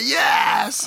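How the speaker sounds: high-pitched, shouted yes; an excited, hammed-up shout; mock group cheer. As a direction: cheer it like the whole boys' chat. Boys' imagined reply in group chat.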